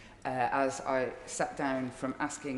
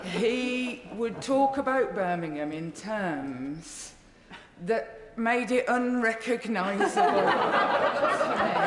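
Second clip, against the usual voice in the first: laughing; 7 semitones higher, 5 dB louder, slower than usual. Real, not acted. Laughing while recalling Jack.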